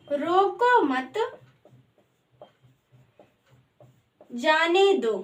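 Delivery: drawn-out words with a long gap midway; unhurried, spaced-out dictation; slow dictation. Shown as a demonstration. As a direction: read it out slowly while writing. Writing the second sentence out.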